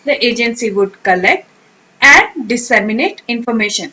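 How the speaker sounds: the wind corrugates the surface of the sea read very slowly and clearly; careful teacher read of the example sentence; slow model sentence. Shown as a demonstration. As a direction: read it out word by word for learners. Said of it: "sentence में कैसे use होगा".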